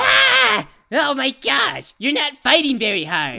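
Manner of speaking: high shrieks, slowing into horrified yells; panicked screaming. Acted. Dash shrieking at Pinky after her wing is cut off, high panicked screams. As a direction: scream in horror as if the wing is really gone.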